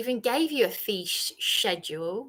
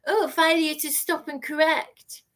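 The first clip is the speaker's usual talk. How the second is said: mocking imitation; 4 semitones higher than usual. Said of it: "you mocked my words".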